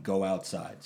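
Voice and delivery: low, softened aside; hushed mock whisper; imitated mouthing. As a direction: imitate someone discreetly mouthing an order. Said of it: "like, mouthing".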